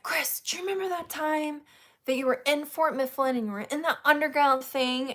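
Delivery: retold enthusiastic asking; imitating eager question. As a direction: blurt it like an excited fan.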